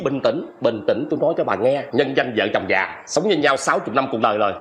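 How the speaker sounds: soothing. Acted. Husband soothing his jealous old wife, placating.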